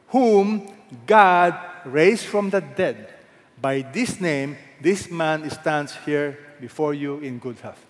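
slow, emphatic quote with punched "whom"; polite but emphatic. Shown as a demonstration. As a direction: read it politely yet with weight, slowly. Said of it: "very polite. Emphatic".

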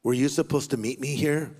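a low question through the stall wall; stranger's voice. Retold or imitated. Stranger asks preacher about meeting, lightly voiced and low. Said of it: "I hear that voice say".

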